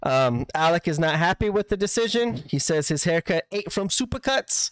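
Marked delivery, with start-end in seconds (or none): 2.9-4.7 lightly put-on Boston accent; horrible Boston accent. Podcaster quoting an unhappy Alec, hammy Boston accent. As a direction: imitate a wrestler with a bad Boston accent. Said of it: "my horrible, uh, Boston accent".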